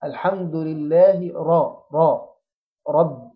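slow الحمد لله into a full, dark "ra" of رب; رب with a heavy open "ra". Shown as a demonstration. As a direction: open the mouth upward for a thick r in رب. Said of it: "أفخم الراء وأجيب الحرف وأنا فاتح".

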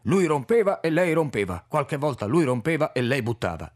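lightly voiced elderly foreigner, animated; a hint of an old Czech paleontologist; Orlik's broken Italian.

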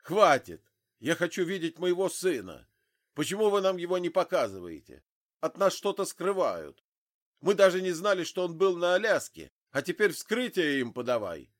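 loud, high, rushing tirade; flaring up. A narrator's reading. Father demands to see his dead son, furious tirade. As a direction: explode at him, words tumbling out. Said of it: "взвился отец".

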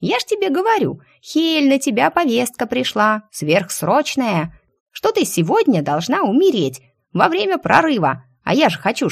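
high, excited indignant chatter; indignant squirrel. Acted. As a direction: squeak it out, outraged. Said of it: "белка аж поперхнулась от возмущения".

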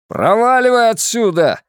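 yelled high and loud; husband yells at his unfaithful wife, furious; furious shout. A narrator's reading. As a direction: throw her out with a roar. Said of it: "заорал Сэмюэл".

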